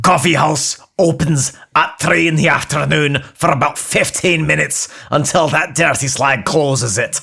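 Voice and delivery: blunt Scottish assistant; deadpan Scottish voice; Scottish accent. Acted.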